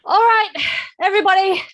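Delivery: loud call to the group. Acted. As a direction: call everyone over, loud and high. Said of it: "she calls out".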